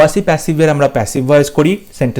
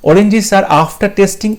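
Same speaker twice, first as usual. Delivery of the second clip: each word slow and separate; slow, careful reading of an exam option; slow dictation; 5 semitones higher, much slower than usual. Shown as a demonstration. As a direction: read it out word by word for the class. Rereading a wrong option.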